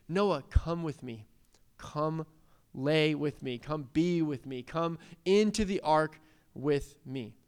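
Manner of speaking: slow, spaced-out gentle coaxing; tender invitation. Acted. The Lord calling Noah into the ark, tenderly inviting. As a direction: invite them in unhurriedly, with pauses.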